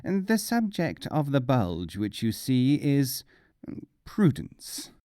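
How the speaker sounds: slow, weighty learned-man voice; pompous aloud. Acted. Mullah lectures his host, slow and weighty. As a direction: pronounce it slowly like a scholar. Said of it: "Aloud, he said".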